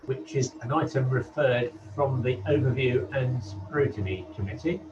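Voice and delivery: hollow, echoey line like a wind tunnel; as if speaking inside a tunnel; echoing tunnel. Real, not acted. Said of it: "you sound a bit like you're in a tunnel".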